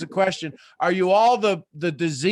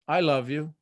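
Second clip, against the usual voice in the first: normal talking voice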